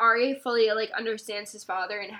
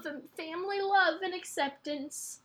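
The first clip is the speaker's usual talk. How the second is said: apologising through tears; moved to tears, explaining why it gets to you; teary. Real, not acted. Host apologising for crying over family love and acceptance, teary. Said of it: "I'm so sorry that I'm so teary".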